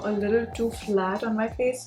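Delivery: usual speaking voice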